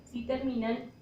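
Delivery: very slow, word groups with long pauses; slow dictation. Real, not acted. Teacher dictating the tilde rule to students, slow dictation. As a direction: dictate it bit by bit, drawing out the words.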